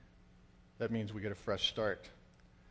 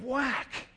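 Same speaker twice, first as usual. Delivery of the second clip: imitated bat crack; 11 semitones higher, 3 dB louder than usual. Acts out bat hitting ball.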